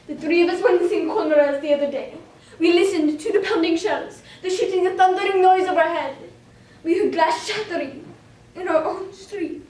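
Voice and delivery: tense dramatic storytelling; dramatic diary reading. Acted. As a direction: tell it with mounting alarm.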